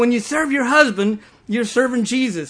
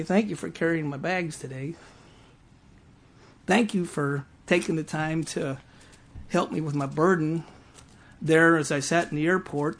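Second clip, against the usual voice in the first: soft, low voice of God thanking him; quiet and tender, let it land; gentle reply; 3 semitones lower, 5 dB quieter than usual. Retold or imitated. God gently thanking the pastor, soft and low.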